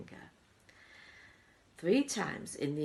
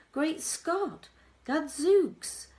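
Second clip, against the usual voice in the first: higher, loud outburst of amazement; astonished exclamation; 13 semitones higher, 9 dB louder, much slower than usual. A narrator's reading. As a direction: gasp it out in mock astonishment. Exclaiming in the poem.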